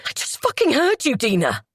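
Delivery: roaring accusation at his wife. Acted. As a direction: roar it right in her face. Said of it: "he roared at me".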